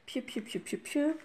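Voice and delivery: soft little chirped pious, rising at the end; playful piou-piou noises. Real, not acted. Makeup vlogger filling time between steps, playful chirping. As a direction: chirp piou-piou idly to yourself. Idle noises while working.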